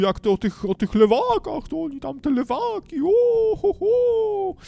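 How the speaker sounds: loud, very high overblown preacher voice ending in hooting; Chojecki, exaggerated. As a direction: wail it out like a hammed-up pastor. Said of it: "cały czas ten pastor, mm, takim jakimś przesadzonym głosem mówi".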